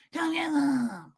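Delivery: high, slow, harmless drawl; slow, high mock challenge with no menace; not scary. Shown as a demonstration. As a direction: stretch it out, deliberately unthreatening. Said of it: "it's not anything like".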